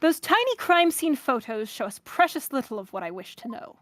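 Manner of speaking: measured mid-Atlantic prosecutor voice; halfway to British, formally delivered; light transatlantic accent for a formal questioner. Acted. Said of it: "a mid-Atlantic, transatlantic kind of thing".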